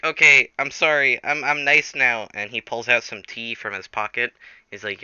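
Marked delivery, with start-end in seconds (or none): 0.0-2.3 mock apologetic. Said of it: "And then Springtrap's like".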